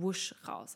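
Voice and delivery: breathy whoosh sound; whooshing exhale. Shown as a demonstration. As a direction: blow out with a whoosh. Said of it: "mit einem Sound wie zum Beispiel".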